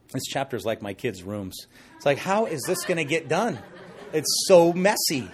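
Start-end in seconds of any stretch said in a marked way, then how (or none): 4.1-5.3 laughing. Real, not acted. Laughing about kids' rooms.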